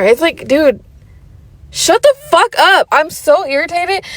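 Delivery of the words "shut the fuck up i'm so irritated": disgusted dismissal. Real, not acted. Dismissing the guy's request.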